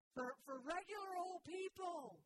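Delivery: „regular“ betont, etwas höher und lauter gesagt; stress on regular. Real, not acted. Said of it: "Emphasis on the word regular, not old".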